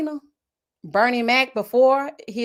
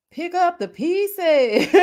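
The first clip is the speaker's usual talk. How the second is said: laughing quote; 9 semitones higher, much slower than usual. Retold or imitated. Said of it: "Martin was pissed".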